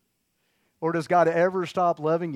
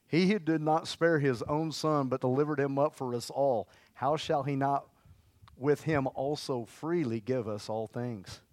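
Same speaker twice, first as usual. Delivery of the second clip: scripture reading. Acted.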